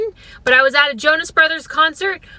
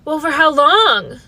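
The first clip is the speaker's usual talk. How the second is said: slow, dragged-out fake concern; mock friend on the phone; 3 semitones lower, slower than usual. Friend on the phone, slow mock concern. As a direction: play a friend who barely cares. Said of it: "Anybody I called would just be like".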